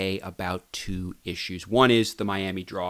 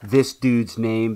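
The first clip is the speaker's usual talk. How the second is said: Hulk voice; 4 dB louder, slower than usual. Pretend. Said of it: "the Hulk can lift up cars".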